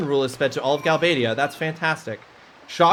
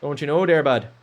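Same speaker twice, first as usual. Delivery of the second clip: put-on East Coast accent; 2 semitones lower than usual. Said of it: "I'm very East Coasty. That's why I'm doing this one here".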